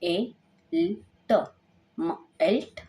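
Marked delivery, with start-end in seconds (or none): 0.7-1.5 "ल ट" said as separate sounds, raised pitch; sounding out letters. Shown as a demonstration. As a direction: give each sound on its own. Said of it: "M का sound हो गया म".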